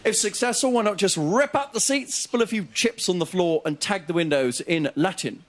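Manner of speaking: army major. Retold or imitated. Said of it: "an army major in an inner city school going".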